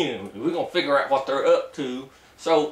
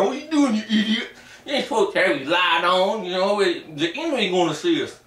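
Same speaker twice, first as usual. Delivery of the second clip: angry sergeant. Retold or imitated. Sergeant chewing out a soldier for using his light. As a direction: chew out the recruit. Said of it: "the sergeant got all mad".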